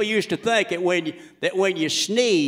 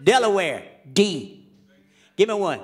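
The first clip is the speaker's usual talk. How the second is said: Louisiana voice. Acted. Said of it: "I'm doing the voice of anybody from Louisiana".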